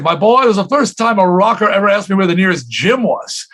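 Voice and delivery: playful hint of an English accent. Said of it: "with his English accent".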